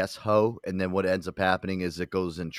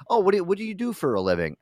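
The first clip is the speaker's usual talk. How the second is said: higher, quick chirpy host question; game show host voice; 10 semitones higher, faster than usual. Pretend. Podcaster plays the Jeopardy host quizzing a contestant, chirpy and quick. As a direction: breeze through the question like a TV host. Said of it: "the guy".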